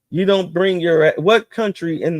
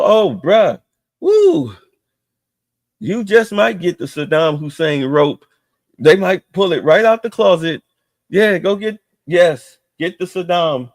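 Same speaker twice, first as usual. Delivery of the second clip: mock hype; 3 semitones higher than usual. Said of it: "We go".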